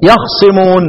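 يخصمون with vowelless kha and a single, undoubled ص; light sad. Shown as a demonstration. Teacher giving Hamza's reading, light-sad recitation. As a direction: say yakh-simun, no shadda on the ص of يخصمون. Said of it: "سكن الخاء وخفف الصاد".

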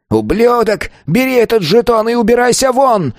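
high-pitched, raging elder; furious growling. A narrator's reading. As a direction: rage at the pupil on a strained high pitch. Elder drives the pupil out. (гневный рык на высоких нотах)

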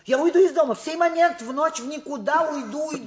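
dramatic high cry. Acted. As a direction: cry it out in melodrama. Mother threatens to leave home.

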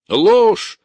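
a single high, loud outburst; furious shout. A narrator's reading. Prisoner yelling a denial at the gendarme. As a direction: fling the word out as a yell. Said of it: "закричал Горенков".

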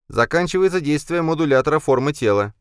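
high, loud device announcement; machine voice. A narrator's reading. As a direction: speak like a talking gadget. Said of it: "сообщила умная ромаранская техника".

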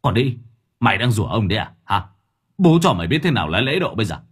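fast, harsh menacing rant; angry threat. Acted. Thưởng Báo threatens the jeering neighbour, fast angry rant. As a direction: threaten her through clenched teeth. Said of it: "Gã nghiến răng".

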